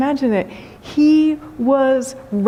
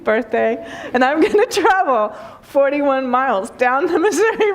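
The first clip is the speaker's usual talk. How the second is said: eager spouse; 3 semitones higher than usual. Pretend. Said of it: "your spouse says".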